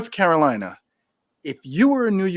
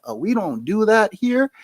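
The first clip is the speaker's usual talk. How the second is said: imitating a bartender; 8 semitones higher, 4 dB louder than usual. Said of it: "And she's like".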